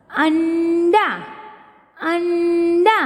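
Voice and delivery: अंडा drawn out slowly, nasal न clear; a slow teaching read of अंडा; slow teacher reading. Shown as a demonstration. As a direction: stretch अंडा for the class to repeat. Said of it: "चित्र देखकर शब्द पढ़ो".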